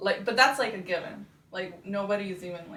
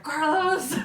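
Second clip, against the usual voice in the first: calling out a name, surprised; excited call; 9 semitones higher, 7 dB louder than usual. Retold or imitated. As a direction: shout his name in happy surprise. Calling out on spotting brother.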